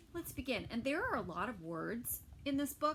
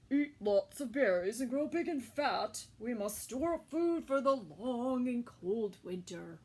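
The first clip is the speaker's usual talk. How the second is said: mother bear; 5 dB louder than usual. Acted. Mother bear speaks to cub.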